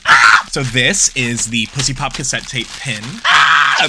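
loud thrilled yelling of the pin's name; excited shout. Real, not acted. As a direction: shout it out with joy. Presenting the pin she loves.

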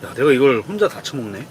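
ordinary talk

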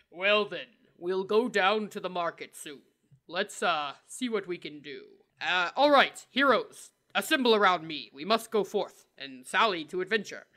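deep, handsome hero voice; deep as possible. Shown as a demonstration. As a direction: go low to sound handsome and cool. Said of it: "go as deep as possible with my squeaky voice".

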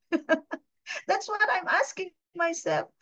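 high, slow laugh through the words. Real, not acted. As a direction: laugh it off at yourself. Laughing at her own question.

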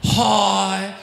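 Jason Statham impression. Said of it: "Jason Statham".

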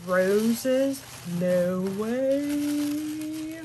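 surprised. Real, not acted. Surprised by roses.

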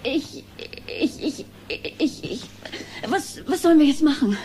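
agitated, stumbling over words; flustered rant. Acted. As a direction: vent until you lose your thread. Upset mother rants, stammers.

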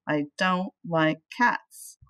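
slow, low grumpy refusal; grumpy old man. Acted. Mister Flugel refusing to play with the cat, slow grumble. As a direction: drag it out like a grouch.

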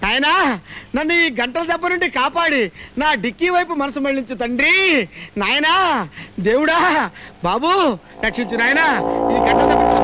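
a touch of hammed-up begging to god; pleading prayer. Man begging god to save him, mock pleading. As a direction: plead to the heavens, calling nayana.

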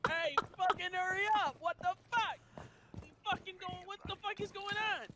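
high-pitched mock yelling; imitated angry Karen. Karen stuck in a long line, high imitated rant. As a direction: screech impatiently like a fed-up customer.

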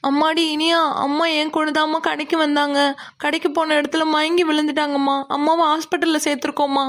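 crying while breaking bad news; tearful. Aunt tells Iniya her mother fainted and is in hospital, tearful. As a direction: wail the news to the daughter. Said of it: "ஏன் அழுகுறீங்க?".

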